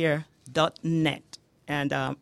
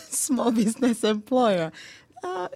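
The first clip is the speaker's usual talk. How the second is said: half-laughing, pitched up and louder; 7 semitones higher, 4 dB louder, slower than usual. Real, not acted. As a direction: laugh through the complaint. Chuckling about employer burdens.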